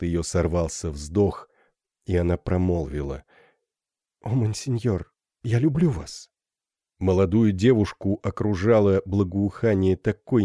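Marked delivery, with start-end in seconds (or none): 4.2-6.3 put-on a girl's shy "я люблю вас" with a gentle fall on "люблю"; tender confession. The gypsy girl confesses love to Phoebus, tender.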